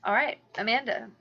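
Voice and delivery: loud, high, laughing teasing; kind gentle laugh. Real, not acted. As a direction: laugh warmly as you tease. Laughing excited teasing lead-in.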